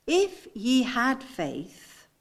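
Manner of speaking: slow, drawn-out "had"; stress on had. Shown as a demonstration. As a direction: lean on "had", stretching the phrase. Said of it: "I want you to get the inflection in my voice".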